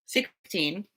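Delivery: talking with a gummy in mouth; drooling. Real, not acted. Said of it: "I'm kinda drooling with my gummy in my mouth".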